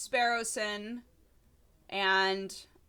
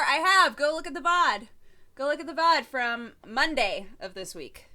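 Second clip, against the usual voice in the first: indignant; 6 semitones higher, 4 dB louder than usual. Real, not acted. Defending herself to chat.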